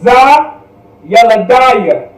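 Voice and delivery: slow teacher's model of "Yeladaya"; careful Hebrew pronunciation. Shown as a demonstration. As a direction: say "Za Yeladaya" slowly, syllable by syllable. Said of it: "this is how you would do it".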